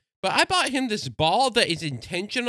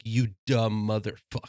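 dog voice; 7 semitones lower, 3 dB quieter than usual. Retold or imitated. Dog's look voiced as insult.

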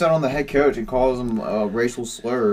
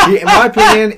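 laughing; 11 dB louder than usual. Real, not acted. Laughing while making claim.

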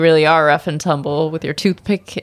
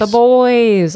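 higher-pitched, drawn-out title cheer; hyped echo; 6 semitones higher, 4 dB louder than usual. Pretend. Co-host echoing the topic, fake high energy.

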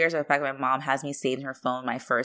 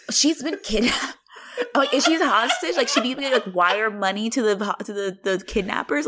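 freaking out; 5 semitones higher, 4 dB louder than usual. Retold or imitated. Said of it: "I'm, like, freaking out".

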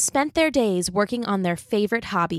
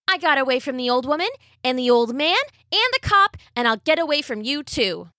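gingerbread man voice; 6 semitones higher than usual. Acted.

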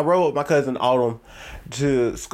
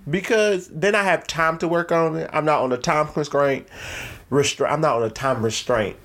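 talking around a retainer; wearing a retainer. Real, not acted. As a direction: speak with a retainer in. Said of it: "I have my retainer in".

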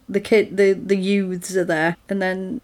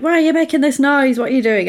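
mock indignant complaint, raised pitch at first; fuming; 5 semitones higher, faster than usual. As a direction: imitate irked drivers, mildly heated. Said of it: "Everyone's fuming".

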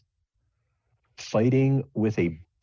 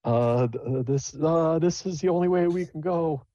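lightly higher, stammering coachman; hesitant driver voice; 9 semitones higher than usual. Acted. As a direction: stumble through it, unsure. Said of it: "the driver's like".

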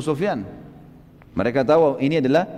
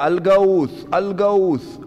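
higher-pitched mock shout, drawn out; imitated cry for help; 3 semitones higher, much slower than usual. Damdam calls for help outside Mecca's gate, mock shouting. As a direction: call out an imitated alarm, not full volume. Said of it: "Dia teriak".

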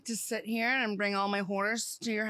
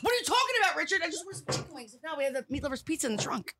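movie quote; 5 semitones higher, faster than usual. Retold or imitated. Quoting Tommy Boy lines.

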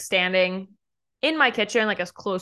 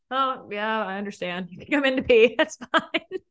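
giggling through a breezy okay; laughing; 3 semitones higher than usual. Retold or imitated. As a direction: laugh it off, overly accommodating. Eager host, laughing at herself.

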